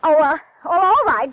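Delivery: startled, loud stammer; flustered surprise. Acted. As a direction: caught off guard, flustered. Operator cuts in suddenly.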